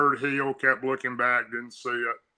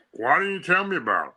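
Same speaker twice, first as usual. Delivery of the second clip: put-on upset kid; 7 semitones higher, faster than usual. Boy demanding answer from granddad.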